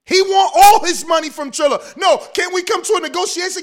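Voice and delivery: tipsy bar argument. Real, not acted. Heated bar-style argument.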